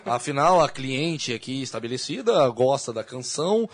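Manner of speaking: slow, formal lawyer's plea; courtroom lawyer. Pretend. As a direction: argue it like counsel in court. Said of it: "Imagina essa objeção". (advogado no tribunal, formal)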